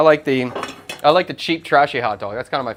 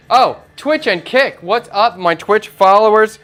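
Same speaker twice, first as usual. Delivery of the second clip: bright, higher-pitched drawn-out greeting; excited shout-out; 6 semitones higher, 4 dB louder, slower than usual. Real, not acted. Chef hailing his new Twitch followers, excited.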